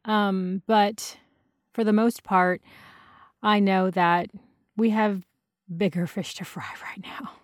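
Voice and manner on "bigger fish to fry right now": laughing whisper under the breath. Real, not acted. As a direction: whisper it with a chuckle. Laughing aside.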